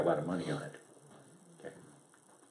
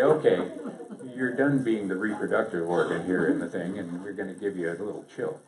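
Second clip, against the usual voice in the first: laughing mock voice; 3 semitones lower than usual. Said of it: "They say".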